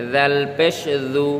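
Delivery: tongue tip forward for a buzzing "th" on দাল, দু; tongue-tip dhal. Shown as a demonstration. Teacher repeats for learners after explaining, tongue-tip দাল. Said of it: "জিহ্বার আগা থেকে উচ্চারণ হবে".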